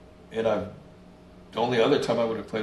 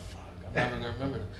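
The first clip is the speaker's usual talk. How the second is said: nervous rush; 9 dB quieter, much faster than usual. Retold or imitated. Nervous at first practice.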